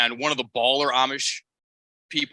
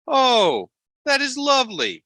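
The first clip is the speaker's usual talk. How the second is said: very high, cooing Amish caricature; hammed-up polite Amish voice, pitched way up; Amos, Amish impersonation; 12 semitones higher, 3 dB louder than usual. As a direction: approve sweetly in a high put-on Amish voice. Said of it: "your Amos Amish impersonation".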